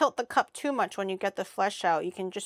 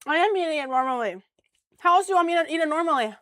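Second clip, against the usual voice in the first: mock defensive; 7 semitones higher, 6 dB louder, faster than usual. Real, not acted. Defensive retort.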